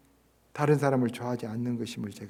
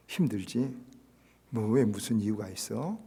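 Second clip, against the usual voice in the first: gentle acceptance; 4 semitones lower than usual. Retold or imitated. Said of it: "이렇게 받아줄 수 있을 때".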